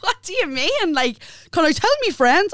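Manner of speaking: high squeaky mock voice; imitating the dim fella. Mimicking the boyfriend asking to tell his friends, high and squeaky. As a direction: squeak it out like a clueless lad. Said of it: "I was like".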